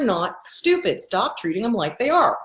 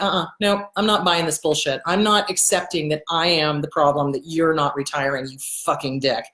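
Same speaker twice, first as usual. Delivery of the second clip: low, firm line-drawing; retold defiance, pitched down; defiant refusal; 6 semitones lower than usual. Retold standing up to abusive dad.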